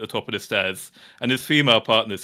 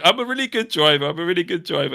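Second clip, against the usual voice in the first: mock insistence; 5 semitones higher than usual. Panicking partner insists.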